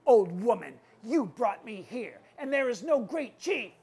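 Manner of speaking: mildly scolding chief's voice. Acted. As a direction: scold her with a punched opening. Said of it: "started to scold the old woman".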